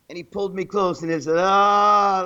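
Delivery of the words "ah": loud, long "aah"; imitated drawn-out "ah". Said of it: "like that".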